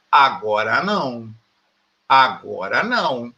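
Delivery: low, slow brush-off of a pupil; lightly voiced stern teacher saying no; mock teacher refusal. Teacher brushing off a pupil who asks to go to the bathroom, low and slow.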